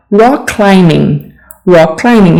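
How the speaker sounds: rock climbing with no B sound; silent B. Shown as a demonstration. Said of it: "You don't need to pronounce the B".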